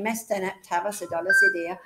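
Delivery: put-on Cornish accent on the old phrase. Shown as a demonstration. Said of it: "So here's my Cornish accent".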